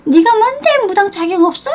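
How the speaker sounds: high-pitched mocking imitation of her huffing; sarcastic high squeal of outrage; mock fuming retort. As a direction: parody her trembling indignation, pitch way up. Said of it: "이러면서 막 부들부들 거리겠지만서도".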